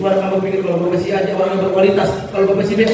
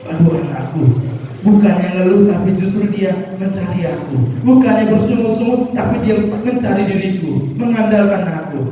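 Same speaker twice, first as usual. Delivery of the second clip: touched God, somewhat louder; God moved by his child; God's voice; 3 semitones higher, 3 dB louder than usual. Acted. God responding tenderly to a trusting believer, a little louder.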